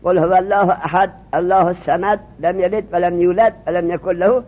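قل هو الله احد recited with each word end voiceless and run straight into the next; recited joining with sukun. Shown as a demonstration. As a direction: chant قل هو الله احد linking the stilled endings. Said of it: "قل هو را اینجور بخوند،".

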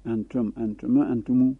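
"انتم" with a short final m, then "انتمو" ending on a long u; teacher lists "انتم", "انتم", "انتمو"; three forms. Shown as a demonstration. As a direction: list the variants "انتم" and "انتمو" one by one. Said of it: "سه جور حرکت وضعی".

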